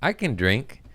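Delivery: high cocky bragging voice; mock boast. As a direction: mimic a cocky drinker showing off. Friend boasting he can drink.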